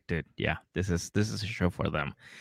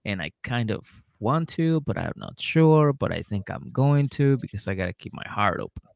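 imitated girlfriend; 4 semitones higher, 3 dB quieter than usual. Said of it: "she's just pretty much saying".

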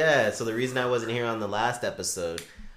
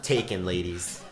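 Seinfeld voice; 6 semitones lower, 4 dB quieter, slower than usual. Retold or imitated. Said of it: "that Seinfeld voice".

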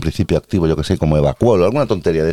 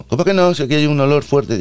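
put-on higher Mexican accent, incredulous; 7 semitones higher than usual. Policeman smelling the odour, higher Mexican accent. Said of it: "el acento mexicano".

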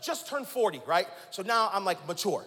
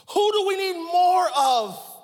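rising climax; 7 semitones higher, 8 dB louder, slower than usual. Acted. Preacher's climactic question.

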